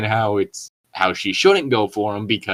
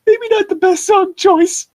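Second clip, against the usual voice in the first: laughing aside; 4 dB louder than usual. Real, not acted. Laughing aside after song joke.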